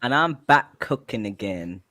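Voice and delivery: lightly put-on British cooking-show host; a hint of a British TV cook; mock British cooking host. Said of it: "I just copy Kay from Kay's Cooking".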